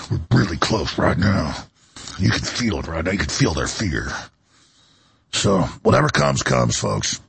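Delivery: dropped far down into a deep register; deep, menacing reassurance; low and ominous. Real, not acted. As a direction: promise it darkly, very low and deliberate. Ominous promise after his outburst.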